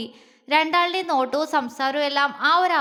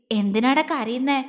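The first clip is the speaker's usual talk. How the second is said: affectionate. Acted. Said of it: "വാത്സല്യത്തോടെ ചോദിച്ചു".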